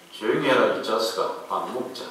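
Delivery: mild retold Gyeongsang dialect father shushing his son; Gyeongsang dialect scolding. Father scolding his son at the table, quiet low Gyeongsang dialect. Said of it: "경상도 사투리로 진행이 됩니다".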